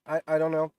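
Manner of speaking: stuffy, nasal voice from a cold. Real, not acted. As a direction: talk through a blocked nose. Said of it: "Sorry about the nasally mu-, mucal vo-, voice".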